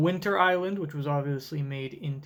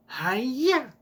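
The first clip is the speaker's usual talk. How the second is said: battle cry; 7 semitones higher than usual. Acted.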